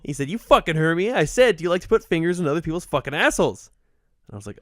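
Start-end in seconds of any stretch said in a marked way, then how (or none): 0.3-3.7 mildly indignant mock insistence; retold aggressive demand. Retelling the stranger repeating his question, aggressive. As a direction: imitate someone testily repeating himself.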